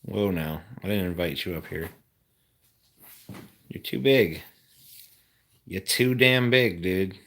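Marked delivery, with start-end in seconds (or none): 3.7-4.4 loud scolding shout; yelling. Real, not acted. Shouting at the dog. 5.7-7.1 loud exasperated shout; yelling. Real, not acted. Shouting at the dog.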